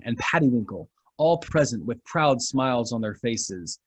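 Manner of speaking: ordinary talk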